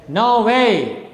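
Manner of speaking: spondee, two strong beats on "No way"; stress on both words. Shown as a demonstration. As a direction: hit "No" and "way" with equal stress. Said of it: "now is stressed and way is also stressed".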